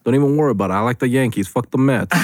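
lightly put-on New York tough guy; brash mock New Yorker talk; New York accent. Host mocking visitors to New York, light New York accent. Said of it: "that's what New Yorkers say".

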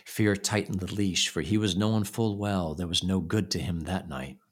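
ordinary delivery

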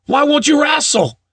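high incredulous question. Retold or imitated. Dad voiced in wrestling story.

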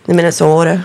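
"Minnesota" in a mock Minnesotan accent, round O; imitated Minnesota accent on "Minnesota". Shown as a demonstration. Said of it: "do that one kind of".

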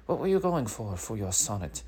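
high-pitched mock teacher; imitating the teacher; teacher quote. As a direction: ask it in a high, put-on teacher voice. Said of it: "he was like".

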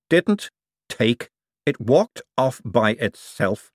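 calm, slow correction; composed, measured rebuttal; calmly. A narrator's reading. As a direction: correct it unhurriedly. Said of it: "said Adora Belle calmly".

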